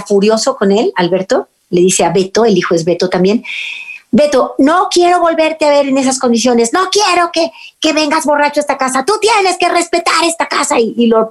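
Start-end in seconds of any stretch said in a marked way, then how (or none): 4.1-10.8 father's stern scolding, raised high; a father laying down the law, pitch climbing. Retold or imitated. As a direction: tell off a drunk son from the doorway. Father scolds drunk son.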